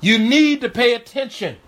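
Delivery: urgent warning. Acted. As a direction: press each "need" hard like a stern warning. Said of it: "got him to where he said".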